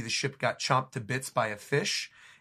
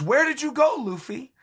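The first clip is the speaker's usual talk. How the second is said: much higher, louder cry; crew scream; 11 semitones higher, 6 dB louder than usual. Acted. The Straw Hats scream for missing Luffy, loud high cry. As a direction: shout it into the dark.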